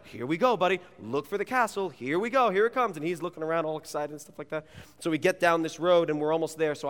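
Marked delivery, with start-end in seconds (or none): 0.0-3.0 high, hyped-up dad voice; hamming it up. Retold or imitated. Father building up the castle for his son, hamming it up. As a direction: overplay the excitement for a little kid. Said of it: "I am hamming it up".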